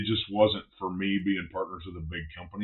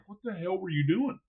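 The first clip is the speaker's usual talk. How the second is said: retold angry yelling; 10 semitones higher than usual. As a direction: act out scolding her without real volume. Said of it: "I'm yelling at her".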